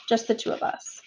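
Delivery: dropped to a near whisper; hushed. Acted. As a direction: keep it between the two of you. Mother asks for private talk.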